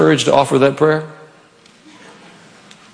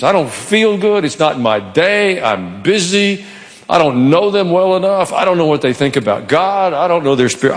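whiny excuses; 4 semitones higher than usual. Retold or imitated. Voicing listeners' excuses.

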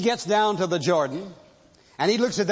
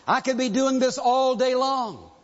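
begging soldiers; 4 semitones higher than usual. Retold or imitated. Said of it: "But they said".

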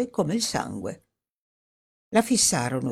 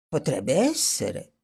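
unsure; 3 semitones lower, slower than usual. Acted. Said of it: "parlò senza sicurezza".

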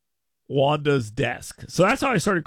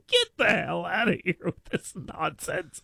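laughing retort; 2 semitones higher, 3 dB quieter than usual. Retold or imitated. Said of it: "I said to him".

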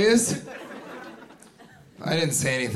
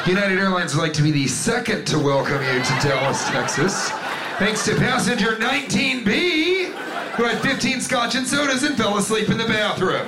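pilot announcement; 4 semitones higher than usual. Retold or imitated. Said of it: "the pilot has to get on and go".

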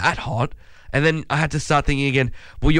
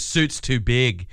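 slow mascot complaint; much slower than usual. Retold or imitated. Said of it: "He goes".

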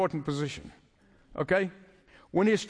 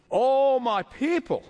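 lament; 5 semitones higher, slower than usual. Acted. Quoting God's lament.

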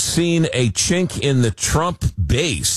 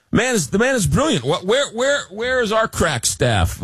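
excited; 11 semitones higher than usual. Real, not acted. Host gushing over guest's idea.

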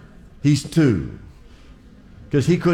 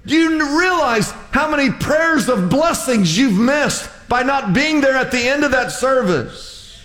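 imagined rant building to a shout; incredulous inner rant; 11 semitones higher than usual. Retold or imitated. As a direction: pour out the unspoken rebuke. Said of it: "But I thought".

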